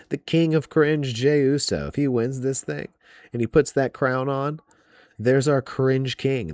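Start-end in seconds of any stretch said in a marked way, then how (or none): 0.1-1.9 mocking sneer. Real, not acted. Fan mocking a wrestler he can't stand with a sneer. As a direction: sneer out the nickname.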